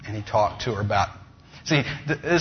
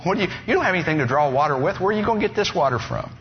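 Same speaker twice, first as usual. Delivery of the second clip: quick, higher, sarcastic retort; sarcastic bite; 5 semitones higher, faster than usual. Acted. Woman at the well scoffing at Jesus, sarcastic bite. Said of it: "She's got a little bit of a sarcastic bite to her".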